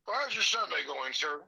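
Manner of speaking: tinny voice over the phone; phone speaker. Real, not acted. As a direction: heard through a speakerphone. Caller heard over phone speaker.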